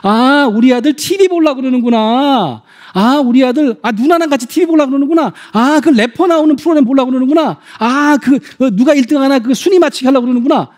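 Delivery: understanding parent. Acted. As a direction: show you get what the kid wants. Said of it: "아이의 눈에서 보는 거예요".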